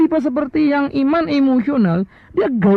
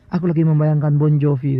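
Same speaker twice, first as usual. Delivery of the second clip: put-on dreamy fan girl; 8 semitones lower than usual. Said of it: "dia bilang".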